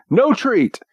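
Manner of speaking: high, sing-song "No treat." stressed on no; mock stern refusal. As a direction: scold him playfully with "No treat.". Others refuse again.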